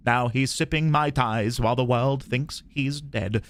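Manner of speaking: put-on old-time news presenter reading a report; old-timey TV news presenter. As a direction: read it as a vintage TV reporter. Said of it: "T V news presenter".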